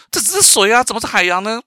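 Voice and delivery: high, puzzled little-fish voice. Acted. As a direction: pipe up as a small fish in disbelief. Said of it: "就小鱼跟他讲说". (小鱼高声疑惑地反问)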